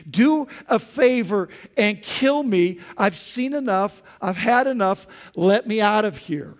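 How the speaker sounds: loud, high, exasperated complaint to God; Moses complaining. Retold or imitated. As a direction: hurl the grievance upward, fed up. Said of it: "Moses said to God".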